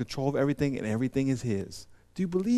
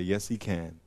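softer, lower self-talk; a worrier talking himself into trust, softer; quiet reassurance; 5 semitones lower, 8 dB quieter than usual. Shown as a demonstration. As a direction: calmly assure yourself. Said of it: "stop yourself short and say".

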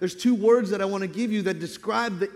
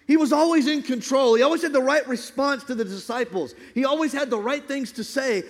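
forceful, driving sermon build; impassioned preaching; 4 semitones higher than usual. Real, not acted. Preacher proclaiming the names and power of Jesus, impassioned. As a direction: pile up the titles with mounting fervor.

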